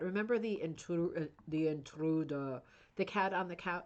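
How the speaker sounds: light mock German accent on the intruder; a hint of German villain voice; playful light German accent. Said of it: "I have to say that in that German voice".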